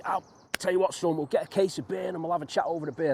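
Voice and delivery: fond echo of his dad's jolly offer; cheery dad voice. Retold or imitated. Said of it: "he says".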